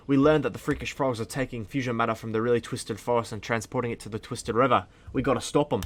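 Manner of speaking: a hesitant attempt at Australian accent. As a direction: try a shaky Australian accent. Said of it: "I can't do an Australian accent".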